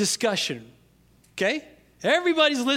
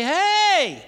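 imagined blunt scolding; 8 semitones higher than usual. Pretend. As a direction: pretend dad finally snapping, hammed-up. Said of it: "My dad was too kind to say".

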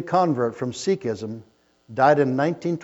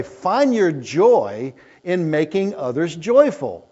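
slow quote; 4 dB louder, slower than usual. Shown as a demonstration. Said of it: "Someone has said it this way".

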